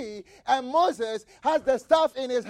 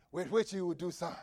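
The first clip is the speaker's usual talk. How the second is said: hushed whisper, much softer; 4 semitones lower, 8 dB quieter than usual. Acted. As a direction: drop to a secret whisper. Whispered scripture after loud line.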